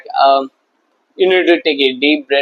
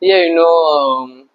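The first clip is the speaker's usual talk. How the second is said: fast, babbling awkward chatter; mock an anxious guy filling silence; hammed-up nervous movie chatter; rambling nervous small talk; much faster than usual. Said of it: "if fear of speaking nonsense, like".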